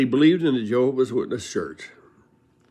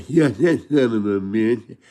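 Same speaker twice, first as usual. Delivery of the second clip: imitating Lane; 5 dB louder, slower than usual. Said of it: "and he goes".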